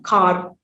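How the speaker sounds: "car" with a sounded final r; pronounced final r. Shown as a demonstration. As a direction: curl the tongue back on the r ending "car". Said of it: "articulation of the r sound".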